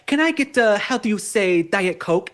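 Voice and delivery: lightly imitated French accent, groping for the word; mock a Frenchman hesitantly ordering; a hint of French accent; French boyfriend. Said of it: "this French guy I dated".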